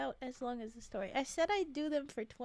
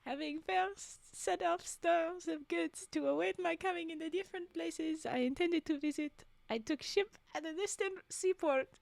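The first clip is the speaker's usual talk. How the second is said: put-on story read in a light French accent; lightly French-accented storytelling. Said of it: "French accent".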